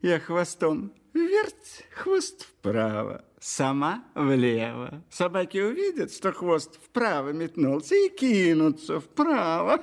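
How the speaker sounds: cunning lively fox; sly fox voice. Acted. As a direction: speak as a crafty fox. Fox character speaks.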